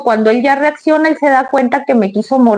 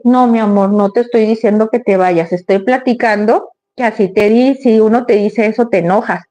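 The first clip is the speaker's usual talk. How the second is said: gentle explaining. Retold or imitated. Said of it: "si tú le hablas bonito".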